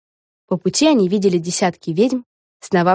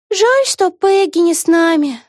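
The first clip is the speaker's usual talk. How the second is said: sighing; 11 semitones higher, 5 dB louder, slower than usual. A narrator's reading. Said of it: "вздохнула Вега".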